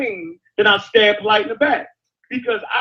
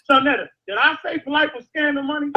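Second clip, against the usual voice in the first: calling out; 4 semitones higher than usual. Real, not acted. Calling out to witness Sonetta.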